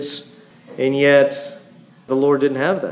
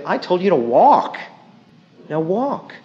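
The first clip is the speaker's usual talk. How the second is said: stern God; 6 semitones higher, 4 dB louder than usual. Pretend. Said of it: "And God's saying".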